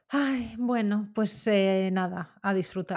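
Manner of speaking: long drawn-out sigh of giving in; mock resigned indulgence. Shopper entering her favourite store, mock resignation. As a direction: give in slowly, as to a guilty pleasure.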